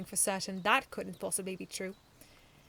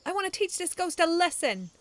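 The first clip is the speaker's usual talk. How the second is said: high, loud eager vow; eager boast; 10 semitones higher, 9 dB louder than usual. A narrator's reading. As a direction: boast you'll win.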